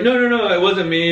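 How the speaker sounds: high, panicked no no no; flustered denial to hide the secret. Retold or imitated. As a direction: cover it up in a rush. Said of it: "I was like".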